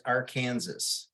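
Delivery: Arkansas said as "ar-KAN-zus"; pronounced like Kansas. Shown as a demonstration. Teasing co-host on his home state, Arkansas as "ar-KAN-zus". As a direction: say Arkansas to rhyme with Kansas, final s sounded. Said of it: "gotta get you to pronounce the state".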